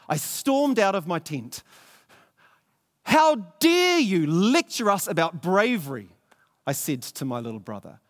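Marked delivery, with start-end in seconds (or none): 3.0-6.1 angry retort. Acted. Elder brother storms out angry.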